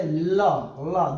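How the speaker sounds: ल sounded at the sides of the tongue; demonstrated lateral consonant ल. Shown as a demonstration. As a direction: hold ल as a side-of-tongue sound. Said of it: "देखिए बोल करके देख लीजिए".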